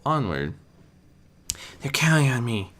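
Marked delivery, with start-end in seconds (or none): 1.8-2.7 a lightly voiced inner vow; Spike repeating to himself. Spike pushing forward through the ash, repeating it. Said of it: "he mentally repeated".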